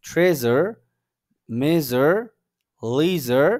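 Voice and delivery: "ট্রেজার, মেজার, লেজার" loud and spaced out; pronunciation drill. Shown as a demonstration. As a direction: model each zh word firmly on its own. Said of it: "আরেকবার বলে দিচ্ছি".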